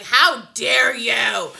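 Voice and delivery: slow, loud, indignant "how dare you"; offended mock fury; rabid outrage. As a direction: bite each word out like a rabid dog. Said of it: "I was like a rabid dog".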